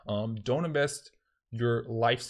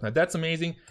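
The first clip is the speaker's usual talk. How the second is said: put-on Italian accent; 5 semitones higher, faster than usual. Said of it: "I will stop doing an Italian accent".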